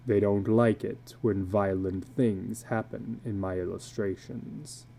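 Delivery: a weary tattooed man confessing low; illustrated man. Acted. Tattooed man confiding to a stranger at dusk, low and weary.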